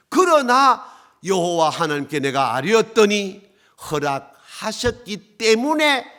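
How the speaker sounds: loud, slow proclamation starting high; forceful preaching. Real, not acted. Preacher rebuking those who want a worldly king, forceful.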